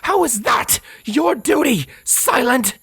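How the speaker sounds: high, screaming rant; impassioned, high-pitched shouted accusations; furious tirade. Acted. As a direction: rage at your enemy without letting up. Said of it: "When Scarlet's tirade came to an end".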